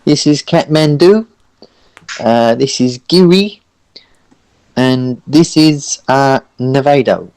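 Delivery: high, stuttering character voice; nervous, hesitant Orson. Acted. Orson introducing his companions to Ciro, nervous and high. Game master plays Orson.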